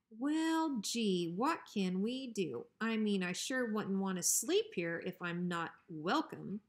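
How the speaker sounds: a hint of fake innocence; mock polite bully. Bruiser pretending to be polite to Hank. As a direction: play innocent but threaten.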